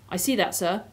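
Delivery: lightly voiced Cockney cabbie; mild Cockney, a humble working man; Cockney accent. Cabbie answering Aslan about ruling, light Cockney accent. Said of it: "the Cockney accent is what I've been doing".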